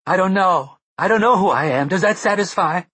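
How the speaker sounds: high, loud desperate scream. A narrator's reading. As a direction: keep screaming in anguish. Mia keeps screaming.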